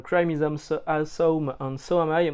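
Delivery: reading the English with a self-mocking English accent; a lightly put-on English accent; proudly bad English accent. Shown as a demonstration. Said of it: "mon accent anglais est formidable".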